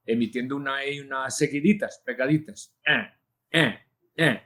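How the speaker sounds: E and A sounds glided together; open vowel demo. Shown as a demonstration. Teacher demonstrating the open vowel sound to learners. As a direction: show the open English vowel between E and A. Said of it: "vocal muy abierta".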